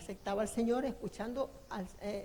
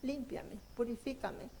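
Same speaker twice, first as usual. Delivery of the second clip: prayer. Acted. Confession prayer before God.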